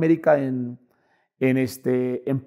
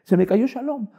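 panicked wife; 4 semitones higher, 5 dB quieter than usual. Retold or imitated.

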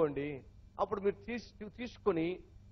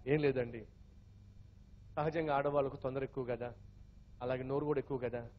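voiced wife; 6 semitones lower, 7 dB quieter than usual. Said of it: "అప్పుడు భార్య చెప్పింది".

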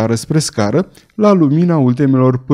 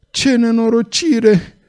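high, slow wail of despair; anguished lament; 10 semitones higher, slower than usual. A narrator's reading. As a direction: drag out the misery of the loss. Mutilated nephew laments his loss. (lamentare lentă și disperată, pe ton înalt)

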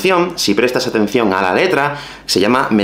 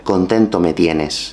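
slow ironic demo; 5 semitones lower, slower than usual. Shown as a demonstration. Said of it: "podemos decir perfectamente".

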